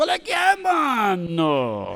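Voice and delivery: high, angry, shouted and confrontational.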